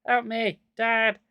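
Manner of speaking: high frantic pleading; panicked. A narrator's reading. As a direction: beg in panic. Panicked plea.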